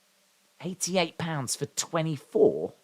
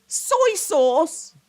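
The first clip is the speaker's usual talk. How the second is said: wheezy voice; 12 semitones higher than usual. Real, not acted. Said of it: "I can't get my breath".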